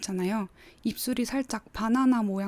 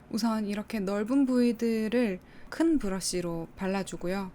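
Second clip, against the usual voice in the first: ordinary delivery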